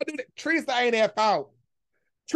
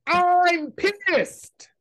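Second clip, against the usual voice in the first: "I'm pissed" pitched up, with the stress on "I'm"; higher emphatic read; 5 semitones higher than usual. Shown as a demonstration.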